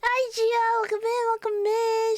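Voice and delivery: high, eager hello; high sing-out welcome; chirpy greeting. Real, not acted. Greets a viewer arriving in chat.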